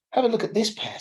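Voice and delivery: shoemaker offering. Acted. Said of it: "said the shoemaker".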